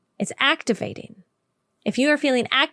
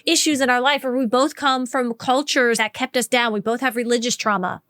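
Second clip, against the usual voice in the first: gushing over shared wounds; 2 semitones higher than usual. Retold or imitated. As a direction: play the eager new friend bonding over shared pain. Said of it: "where you say, like".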